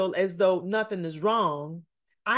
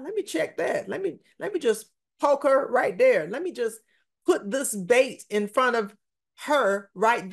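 scheming enemy. Retold or imitated. Preacher voices the scheming enemy.

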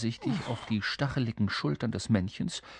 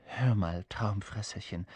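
low, hesitant king; mildly anxious, holding back; worried; 4 semitones lower, 3 dB quieter than usual. Acted. King stopping the creature with a doubt, worried. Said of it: "sagte er besorgt".

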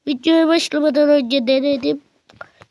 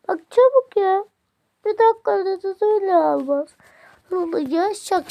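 impatient urging; 6 semitones higher than usual. Real, not acted. Urging viewers to comment fast.

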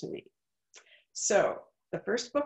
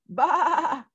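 higher, louder bleat; sheep's baa; 8 semitones higher, 7 dB louder than usual. Acted. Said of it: "said the sheep".

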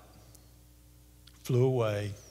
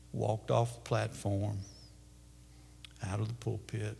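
solemn hush; 5 semitones lower, 13 dB quieter than usual. A narrator's reading. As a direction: let it settle into reverent silence. Solemn close of the story.

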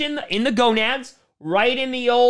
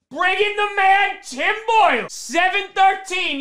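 tag; 8 semitones higher than usual. Acted. Announces backup quarterback with mock hype.

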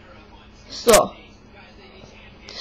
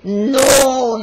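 big deep voice; 3 semitones higher than usual. Retold or imitated. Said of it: "he says in big, deep voice".

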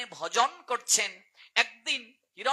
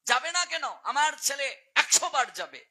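scolding uncle; 2 semitones higher than usual. Retold or imitated. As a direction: retell an uncle's indignant rebuke. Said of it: "জ্যাঠা ধমক দিয়ে তার ভাইকে বলছে". (হালকা অভিনয়ে জ্যাঠার ধমক)

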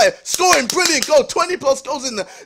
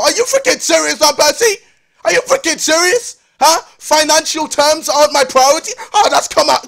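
raised, indignant challenge; outraged; 2 semitones higher, 5 dB louder than usual. Real, not acted. Fan confronting Van Persie over his statement, outraged. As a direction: challenge him loudly in disbelief.

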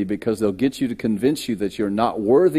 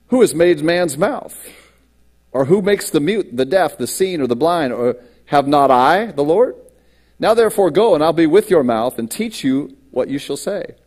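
louder, commanding voice of the Lord; booming Lord; 4 semitones higher, 3 dB louder than usual. Acted. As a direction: proclaim it like God rebuking Moses. Reading God's reply to Moses.

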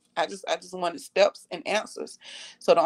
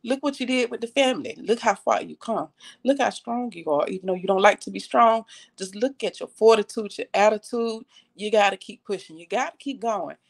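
grandma's encouragement; 2 semitones higher than usual. Retold or imitated. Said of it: "like my grandma said".

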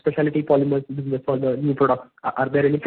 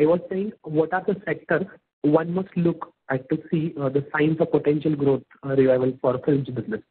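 louder repeat of the question; speaking up. Real, not acted. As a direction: repeat it more audibly for the listener. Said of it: "Can you please speak louder?".

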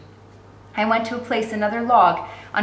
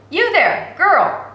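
put-on loud, higher call to the girl; 7 semitones higher, 5 dB louder, much slower than usual. A narrator's reading. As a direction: call her again, louder and higher. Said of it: "a voice called out".

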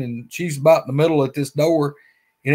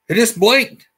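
startled friend; 8 semitones higher, 5 dB louder than usual. Retold or imitated. Friend watching the creature's eyes.

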